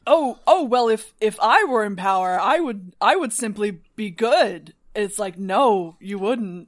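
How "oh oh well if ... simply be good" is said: emphatic, slightly loud mimicry of self-assurance; mock someone sure of their own goodness, leaning on each I; mockingly earnest, drawing out the end; mock naive boasting. Mocks naive would-be ruler, then rebuts.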